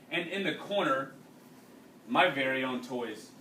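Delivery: reading a story aloud to a class; unhurried read-aloud narration for students. A narrator's reading. Teacher reading a wartime novel to the class, steady narration.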